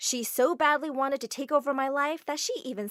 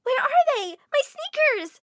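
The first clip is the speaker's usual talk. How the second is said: much higher, loud panicked shouting; frantic fit; 8 dB louder than usual. Acted. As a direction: wail for the lost sneakers. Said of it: "She threw a huge fit".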